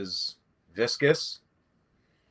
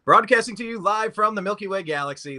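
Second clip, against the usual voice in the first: higher, grander broadcast opener; announcer intro; 7 semitones higher than usual. Acted. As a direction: relaunch the show like a radio host. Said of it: "I'll say it the right way".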